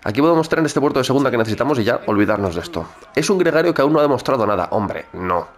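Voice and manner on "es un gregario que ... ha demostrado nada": quoting the commentator, slightly raised; mock commentator call; sports commentator voice. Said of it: "el comentarista a lo suyo". (imitando al comentarista)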